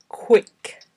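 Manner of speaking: careful, isolated word for dictation; slow dictation. Shown as a demonstration. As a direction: say each word on its own, long pauses between. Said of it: "read ten words aloud slowly".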